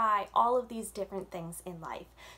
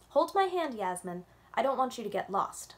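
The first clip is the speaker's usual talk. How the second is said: louder, firm caring caution; mother's warning; 4 dB louder than usual. Acted. Mama warning Yasmin in the crowded street, firm and louder. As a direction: warn the child to stay close. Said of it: "Mama warned".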